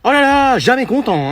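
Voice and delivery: mock exasperation. Teacher sighs dramatically.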